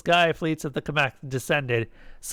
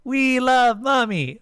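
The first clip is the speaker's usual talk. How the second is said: loud, high, stretched cheer; slow, full-voiced high shout; children roaring; 11 semitones higher, 5 dB louder, slower than usual. A narrator's reading. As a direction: roar it out like adoring kids. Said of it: "all of the children roared".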